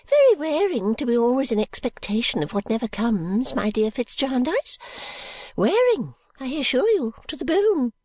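put-on high, fluttery old lady, whispering bits; a rambling old woman clinging to hope; old Miss Flite.

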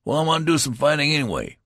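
high, loud, fast cut-in; young soldier cutting off the veteran, loud and fast; interrupting. Acted. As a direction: blurt it over him. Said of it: "interrupted the other".

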